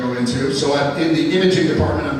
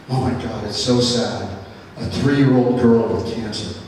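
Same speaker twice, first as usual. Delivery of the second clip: sad pity; 4 semitones lower than usual. Retold or imitated. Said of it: "She says to me".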